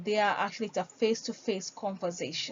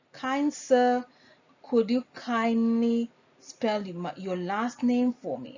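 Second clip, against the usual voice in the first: polite request. Shown as a demonstration.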